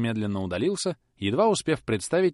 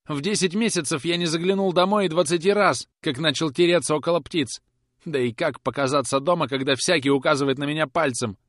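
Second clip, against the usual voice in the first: higher, louder remorseful outpouring; despairing lament; 6 semitones higher, 5 dB louder than usual. Acted. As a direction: confess in fresh remorse. Boy's despairing confession. (в припадке раскаяния, выше и громче)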